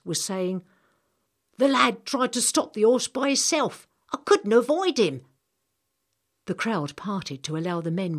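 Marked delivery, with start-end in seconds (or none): 1.6-5.2 louder, anxious working man's voice; distraught driver. Acted. Driver wringing his hands to the crowd, distraught. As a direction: plead it, upset and guilty. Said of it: "wringing his hands".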